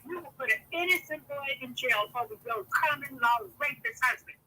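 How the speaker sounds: loud, indignant retold outburst; going off. To the family protecting a rapist, a loud angry outburst. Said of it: "And I went off".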